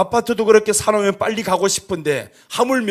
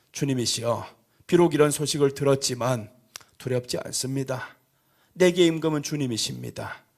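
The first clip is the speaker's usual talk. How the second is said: calm trusting prayer; 4 semitones lower, 4 dB quieter than usual. Shown as a demonstration. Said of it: "여러분, 이렇게 기도하시기 바랍니다".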